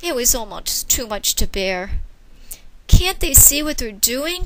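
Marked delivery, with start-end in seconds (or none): 2.9-4.5 higher anguished cry. Acted. Child crying out at human cruelty. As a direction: plead with the world. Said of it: "cried Winky".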